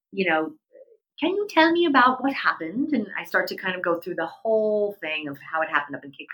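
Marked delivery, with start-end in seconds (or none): 1.2-2.9 put-on doctor's South African accent, higher and louder; put-on South African accent for a retold question. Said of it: "he just says to me in his accent".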